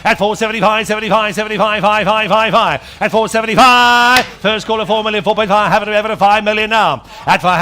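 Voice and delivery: rapid auction chant; auctioneer. Acted. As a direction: rattle off bids like an auctioneer. Auctioneer running the bidding.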